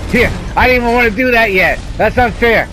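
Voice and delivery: real panic, voice climbing up; scared horror game streamer. Real, not acted. Streamer swarmed by enemies in game.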